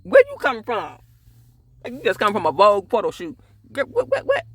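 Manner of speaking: high, loud gushing surprise; excited praise. Retold or imitated. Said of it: "I said".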